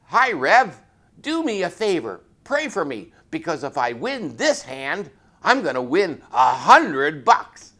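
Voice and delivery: loud, high, eager request with a grin; excited plea. Retold or imitated. Sergeant at the card table begging the Rev to pray, loud and eager. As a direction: pump it up like a gambler begging for luck. Sergeant asks reverend for prayer.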